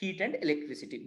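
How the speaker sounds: drawn-out phrase dictated for notes; slow dictation. Shown as a demonstration. Teacher giving students the exact answer line, slowly. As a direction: lay each word down slowly for the class. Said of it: "बस इतना बोलेंगे हम लोग".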